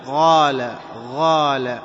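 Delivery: "غال" with gargled gh for q; qaf swallowed into ghayn. Shown as a demonstration. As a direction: push the q of "قال" inward till it becomes "غال". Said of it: "ندخله إلى الداخل فنقول".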